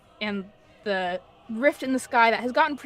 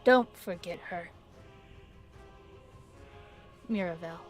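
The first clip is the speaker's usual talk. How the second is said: dragon voice; 3 semitones lower, 7 dB quieter than usual. Acted. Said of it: "in this draconic voice".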